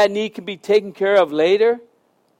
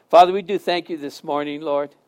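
prayer. Acted. Closing prayer.

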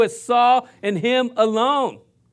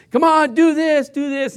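parent drilling; 6 semitones higher, 4 dB louder than usual. Retold or imitated. Parents drilling daughter at soccer.

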